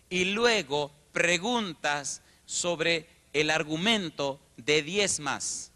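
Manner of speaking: drawn-out emphatic stress on diez; slow emphasis. Real, not acted. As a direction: spell it out slowly to stress how much. Preacher stressing numbers.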